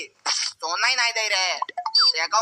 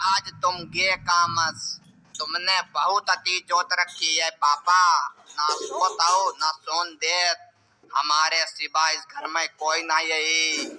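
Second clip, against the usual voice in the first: ghost voice; 4 semitones lower than usual. Pretend. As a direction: play the possessed son creeping up on his dad. Son plays ghost scaring father. (धीमी, भारी भूतिया आवाज़)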